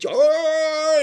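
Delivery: high, loud imitation of a bawling calf; imitated calf bawl. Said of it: "he's bawling".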